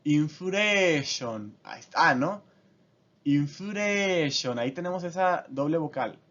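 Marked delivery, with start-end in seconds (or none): 0.0-1.6 inflation slowly as in-fu-re-shon; Japanese pronunciation. Shown as a demonstration. Teacher showing the Japanese form: インフレーション. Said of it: "al hacerla en japonés". 3.2-4.6 Inflation very slow, in-fu-re-shon; Japanese pronunciation. Shown as a demonstration. Teacher repeating the Japanese form: インフレーション. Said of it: "al hacerla en japonés".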